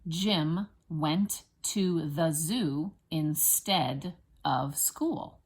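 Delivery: put-on slow phrases for children to join in; deliberate, evenly spaced words; say-along dictation. Shown as a demonstration. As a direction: lead a class saying it together, unhurried. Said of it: "Say it with me".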